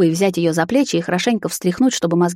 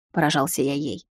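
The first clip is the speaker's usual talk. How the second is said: ordinary delivery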